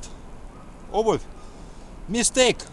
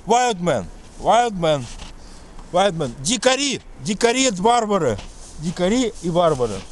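put-on heavy Russian accent menace; 3 semitones lower than usual. Boasts about wild Russian men.

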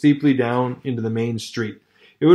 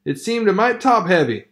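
put-on higher, apologetic old-timer voice; meek miner; 6 semitones higher than usual. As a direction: back down politely from the argument. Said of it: "the man hastened meekly to say".

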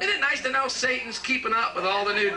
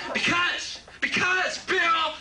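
high, shouted outburst; shouting; 11 semitones higher, slower than usual. Acted. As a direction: yell it like the answer is obvious. Shouting the punchline.

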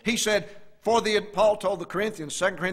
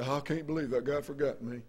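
bitter murmur; 3 semitones lower, 4 dB quieter than usual. Retold or imitated. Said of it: "bitter and murmuring".

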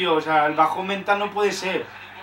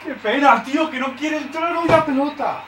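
dismayed cry; 7 semitones higher than usual. Real, not acted. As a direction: wail at the missed chance. Another miss.

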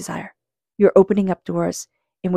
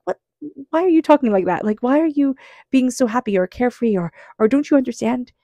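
higher, pitched-up mock disbelief; asking a carefree friend why they sound so happy, in mock disbelief; incredulous; 5 semitones higher than usual. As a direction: act baffled at their cheerfulness. Incredulous listener reacting to carefree person.

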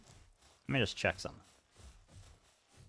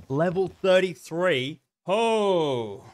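alarmed; 9 semitones higher, 7 dB louder, much slower than usual. Real, not acted. Spots a high-level beast.

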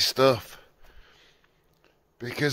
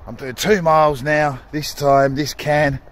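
a daft voice, a touch louder; stupid voice; 3 semitones higher, 4 dB louder than usual. Acted. Updating the viewers in the silly put-on voice. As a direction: keep the silly put-on voice going. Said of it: "Fucking stupid voice".

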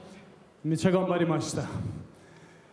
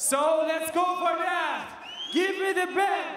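raised, higher demand for the belt; shouting a confession; 5 semitones higher than usual. Real, not acted. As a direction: call it out to the crowd, slow and bold.

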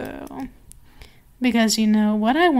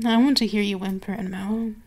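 sultry demand; 2 semitones lower, faster than usual. Acted.

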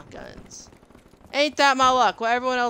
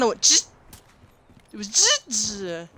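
buzzing sound. Retold or imitated. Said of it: "That's what it sounded like".

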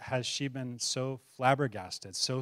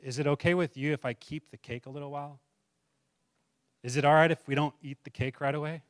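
slowly and softly. Retold or imitated. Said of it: "she slowly and softly said".

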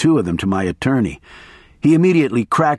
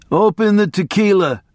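a lightly raised, higher order; yelled; 8 semitones higher than usual. A narrator's reading. Narrator's mild yell at his attorney. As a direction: bark it over the wind noise. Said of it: "I yelled".

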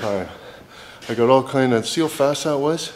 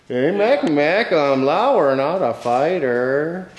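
playful put-on voice; 3 semitones higher, much slower than usual. Playful character voice to buddy.

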